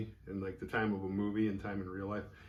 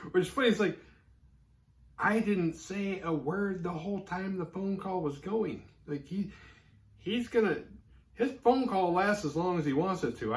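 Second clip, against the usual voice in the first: higher, faster, laughing mock protest as Jess; exasperated Jess; 9 semitones higher, 4 dB louder than usual. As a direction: play Jess as exasperated and defensive. Voicing Jess's exasperated side.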